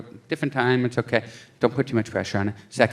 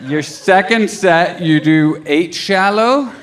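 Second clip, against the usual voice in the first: slow counting; 3 semitones higher, much slower than usual. Retold or imitated. Counting sets in bed, slowed.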